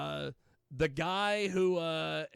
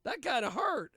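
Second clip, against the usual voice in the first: quoting her; 7 semitones higher, 4 dB louder than usual. Retold or imitated. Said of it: "she was like".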